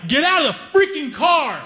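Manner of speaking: high angry mock yell; imitating a furious guy yelling. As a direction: bark it at the car. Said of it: "and he's pissed".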